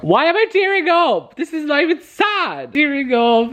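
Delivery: high, strained voice on the edge of tears; half laughing at yourself for crying over a book; teary, emotional. Real, not acted. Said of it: "I'm tearing up".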